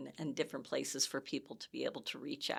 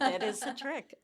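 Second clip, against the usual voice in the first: much higher and louder, punching "That"; excited emphasis; 9 semitones higher, 6 dB louder than usual. Real, not acted. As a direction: say it again, really selling the point. Repeats line with excited emphasis.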